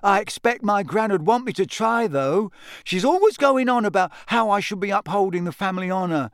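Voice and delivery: put-on high-pitched, fretful boy; put-upon, glum complaint; Neville, gloomy. A narrator's reading. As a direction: grumble about a burden of expectation. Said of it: "came Neville's gloomy voice".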